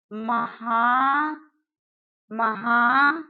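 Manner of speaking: महा- then महात्म, stretched slowly in pieces; syllable-by-syllable breakdown. Shown as a demonstration. Teacher building the word for students, slowly. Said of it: "आधा ता, आधा मा और या".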